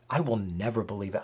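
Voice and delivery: quick, clipped bitter refusal; a touch of a resentful scoff. Shown as a demonstration. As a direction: rattle it off like a stubborn man. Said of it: "I read that with a tone".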